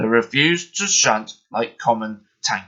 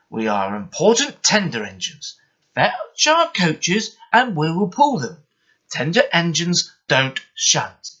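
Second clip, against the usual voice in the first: huffy; 5 semitones higher, 3 dB louder than usual. Acted. Henry refuses to shunt, mildly huffy and proud. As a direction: sniff at the idea of shunting. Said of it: "huffed Henry".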